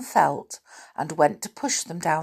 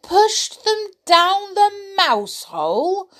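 very high, loud astonished cry; 4 dB louder than usual. Acted. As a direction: gasp it out in disbelief. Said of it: "cried all the toys in astonishment".

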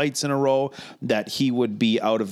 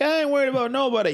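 a much higher, fast, hammed-up Boston accent; a clumsy mock Boston accent, super chill; bad Boston accent; 14 semitones higher, faster than usual. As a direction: toss it off in a terrible Boston accent. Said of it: "That's a terrible Boston accent".

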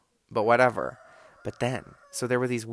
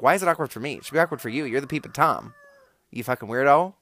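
louder, higher, exasperated scolding; indignant rant; 4 semitones higher, 7 dB louder, faster than usual. Retold or imitated. Ranting at the woman who watched her shower, loudly indignant. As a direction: tell off the peeping woman, building to the insult. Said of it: "which, I'm like".

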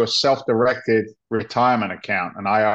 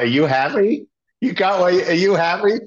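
pressing question; 8 semitones higher than usual. Retold or imitated. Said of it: "I'm like".

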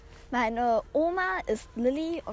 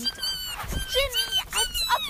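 much higher, squealing "Ginny"; excited squeal; 6 dB louder, slower than usual. Real, not acted. Girl hoping to draw Ginny, excited squeal. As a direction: squeal with hope for the card.

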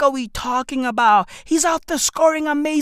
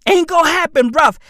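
louder, punchy repeat; loud taunt; 3 semitones higher, 6 dB louder, faster than usual. Acted. Taunting the IMF out loud. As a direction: shove it back at them.

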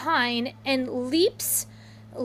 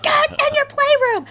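sharp order; 11 semitones higher, 4 dB louder than usual. Retold or imitated. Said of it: "And I'm like".

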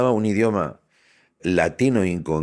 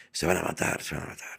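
hushed fretting; 2 semitones lower, 11 dB quieter than usual. Retold or imitated. Repeats worried ladies' mutter.

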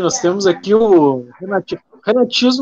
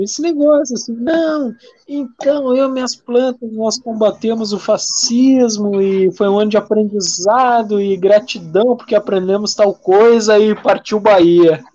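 mock influencer voice. Mocking an influencer's clichés.

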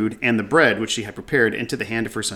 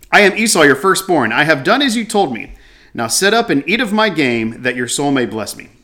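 Jacob's lie; 3 semitones higher than usual. Acted. Jacob's lie read again, louder.

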